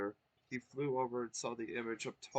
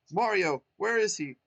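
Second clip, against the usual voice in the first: eager; 9 semitones higher, 10 dB louder than usual. Acted. Twink anxious question.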